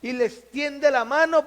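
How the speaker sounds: usual speaking voice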